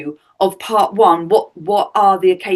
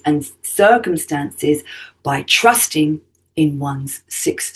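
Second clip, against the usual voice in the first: measured radio host introduction read; scripted show intro; 3 semitones lower than usual. Acted. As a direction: read the guest's bio to listeners, phrase by phrase.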